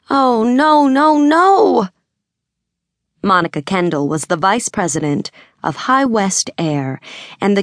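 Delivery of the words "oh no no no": much higher, louder rising cries of no; horrified denial, voice climbing; dismayed panic. Acted. Sister learns her brother's blunder, panicked denial. Sister hears bad news.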